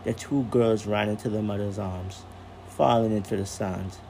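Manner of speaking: calm storyteller reading aloud; story narration. A narrator's reading. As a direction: read it like a bedtime story.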